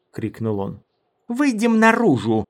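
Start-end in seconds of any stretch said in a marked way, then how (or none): 1.3-2.4 high, loud snarled order; growling. A narrator's reading. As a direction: snarl it at them. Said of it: "зарычала Мара".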